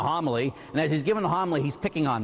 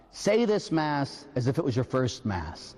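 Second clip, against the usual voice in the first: solemn sign reading; 3 semitones lower than usual. Shown as a demonstration. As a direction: read the priest's inscription gravely. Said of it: "a little sign that says".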